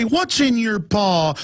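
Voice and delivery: cooing stranger. Retold or imitated. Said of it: "people would come over, ignore you, and say".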